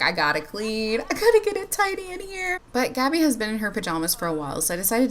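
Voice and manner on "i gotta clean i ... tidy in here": light put-on voice, jumping much higher at the end; voicing tidy Aspen. Vlogger voicing Aspen, who can't stop cleaning, in a light put-on voice. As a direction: play the neat freak who can't help herself. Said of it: "She's like".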